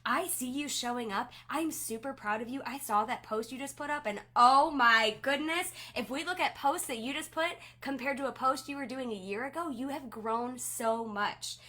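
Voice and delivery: bright, lively praise that swells loud on oh my goodness; excited praise. Shown as a demonstration. Leader praising a team member's new post, excited. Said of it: "send one in excitement and just say".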